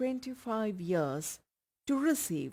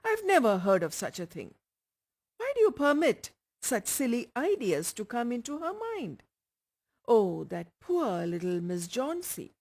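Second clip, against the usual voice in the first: put-on loud, raised old man's outburst; shouting old man; 4 semitones higher, 5 dB louder than usual. A narrator's reading. Old painter shouting at Sue over Johnsey's foolish fancy. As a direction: bellow it at Sue in disbelief. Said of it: "Old Berman shouted".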